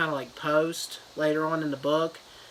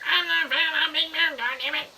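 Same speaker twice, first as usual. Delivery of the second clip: Big Man voice; 13 semitones higher than usual. Retold or imitated. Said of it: "he's like".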